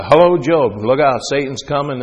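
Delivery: loud, playful warning call; mock phone call. Preacher playing God phoning Job, mock warning.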